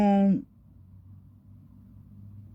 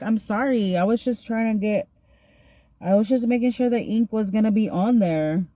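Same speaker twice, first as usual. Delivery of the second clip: higher, pleading mock apology; acted-out defensive apology; apologetic protest; 4 semitones higher than usual. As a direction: explain yourself to someone yelling at you. Retold excuse to yelling officer.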